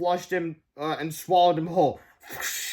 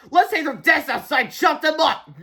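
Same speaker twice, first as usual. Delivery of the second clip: high, loud excited call; gleeful cry; 10 semitones higher, 6 dB louder than usual. Acted. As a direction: cheer at their downfall. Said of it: "cried Miss Ribble".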